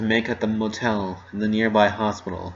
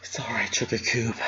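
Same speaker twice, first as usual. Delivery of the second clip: comforting; 2 semitones lower, 6 dB quieter than usual. Acted. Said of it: "she said immediately".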